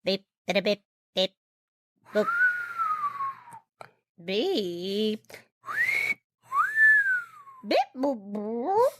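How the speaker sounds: robot beeps. Acted. Droid beeping in improv scene.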